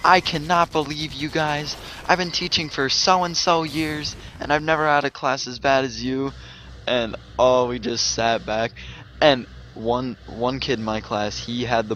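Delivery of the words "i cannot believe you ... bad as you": mock teacher rant. Veteran coach scolds the misbehaving class, mock angry rant. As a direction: play the veteran yelling at the whole class. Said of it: "the yeller, went off".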